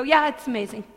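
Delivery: casual agreement. Shown as a demonstration. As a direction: toss it off like anyone would. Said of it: "You could go".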